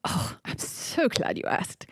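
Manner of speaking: breathy whispered dummy voice; a puppet leaning in to whisper; ventriloquist dummy accent. Pretend. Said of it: "What is this accent?".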